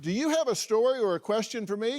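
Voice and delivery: high-pitched, lively sign-off to viewers; promo read. Acted. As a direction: pitch it up like a recorded call-out to the audience.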